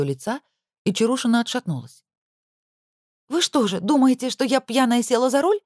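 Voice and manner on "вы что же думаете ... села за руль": высоко и громче, с негодованием; поражена обвинением, голос взлетает; возмущённое удивление. A narrator's reading. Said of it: "округлила она глаза". (возмущённо-удивлённо)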